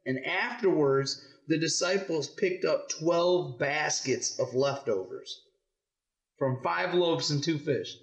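measured read-aloud with weighted key words; story reading to children. Acted. Parent reading the loaves story to kids, measured storytelling. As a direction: read it out clearly for young listeners.

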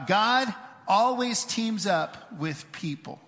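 slow, spaced-out call to say it together; leading group recitation. Real, not acted. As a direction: say it slowly so a crowd can join in. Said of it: "say this statement out loud with me".

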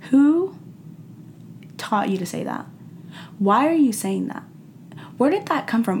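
as if you can't believe your ears; shocked disbelief. Retold or imitated. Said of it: "that you're like".

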